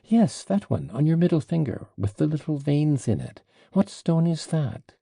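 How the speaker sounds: put-on high-pitched childish insistence; peevish child. A narrator's reading. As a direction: pester him like a sulky child who wants an answer. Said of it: "like a peevish child".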